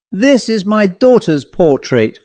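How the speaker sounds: cry of recognition. A narrator's reading. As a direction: cry it out in disbelief. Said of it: "cried Jay".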